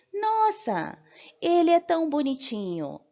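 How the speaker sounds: high, gushing nossa; gushing over a kitten. Pretend. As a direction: coo over the cute kitten. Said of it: "você vai virar e falar assim".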